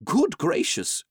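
startled exclamation, pitched well up and drawn out; surprised cry. A narrator's reading. The Doctor hears his dog talking asleep, astonished cry. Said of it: "cried the Doctor".

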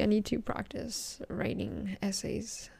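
soft unvoiced whisper. Real, not acted. Whispering to listeners late at night. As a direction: breathe it out under your breath.

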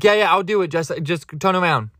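impatient mock cut-in, starting high; quick interruption. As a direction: pretend to cut someone off mid-sentence. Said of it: "I just wanna interrupt them so quickly".

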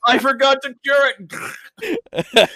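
high, loud, laughing through words. Real, not acted. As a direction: laugh it out, amused at yourself. Laughing at own mistake.

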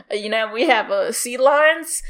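put-on British lecturer; mock British accent. Showman lecturing a crowd on sea creatures, mock British accent. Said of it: "This is my British accent, by the way".

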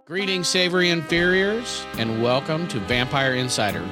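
scripted show-opener read over music; podcast announcer intro. Acted. Host welcoming listeners and introducing co-hosts, announcer style. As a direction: welcome listeners with a measured host's flourish.

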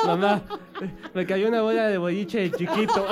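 half-laughing, playing a little boy who tells his mom; childish whine broken by laughter. Acting a child telling mom. (niño riéndose y acusando con su mamá)

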